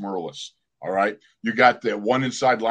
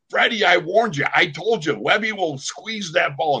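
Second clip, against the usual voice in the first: scolding teammate; 6 semitones higher than usual. Retold or imitated. Haslett in the huddle scolding Freddie, told-you-so. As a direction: rub it in like an angry teammate. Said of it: "I hear Haslett going".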